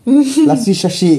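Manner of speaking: high, slow mock Punjabi accent. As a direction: drawl it the Punjabi way. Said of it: "Rhyming words twice is how Punjabi speak".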